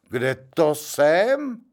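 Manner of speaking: slow, mildly indignant question. Acted. Janík asks the gentlemen, mildly indignant. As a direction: sound put out and offended. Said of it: "pravil pohoršeně".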